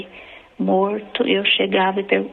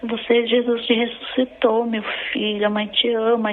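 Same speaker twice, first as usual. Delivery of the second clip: joyful, slightly raised retold cry; mildly overjoyed, pitched a bit higher; tearful joy; 3 semitones higher than usual. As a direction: retell a mother's tearful relief. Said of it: "eu chorava, eu ria".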